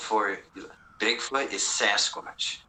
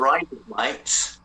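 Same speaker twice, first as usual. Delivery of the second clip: Australian accent; slower than usual. Shown as a demonstration. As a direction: say it like "razor blades" in Australian. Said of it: "razor blades in an Australian accent".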